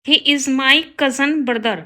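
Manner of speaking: slow, careful read of the wrong sentence; slow teacher dictation. Shown as a demonstration. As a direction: spell it out word by word for the class. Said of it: "गलत है".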